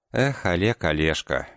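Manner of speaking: rising, reproachful sigh over the name. Acted. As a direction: gently scold him by name. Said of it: "укоризненно сказала она".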